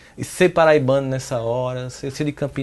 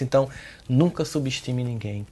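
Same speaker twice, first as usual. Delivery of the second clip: ordinary talk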